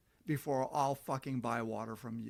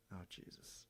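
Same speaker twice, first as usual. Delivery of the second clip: muttered aside; 8 semitones lower, 16 dB quieter, slower than usual. Real, not acted. Muttered aside while checking messages.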